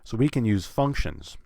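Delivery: "use" kept light, "functions" stressed. Shown as a demonstration. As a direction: pass lightly over "use" to hit "functions". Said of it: "I'm not putting stress on it".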